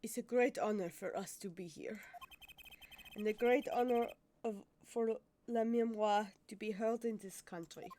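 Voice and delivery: put-on French accent. Interpreter greeting the hosts, French accent. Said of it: "I'm gonna have to do the accent".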